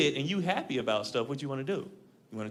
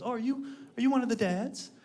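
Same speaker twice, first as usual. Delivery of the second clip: a lightly higher, polite team mom; 7 semitones higher than usual. Retold or imitated. Team mom greeting a dad at baseball practice, lightly voiced. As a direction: ask it like a sweet, nosy mom. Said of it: "She goes".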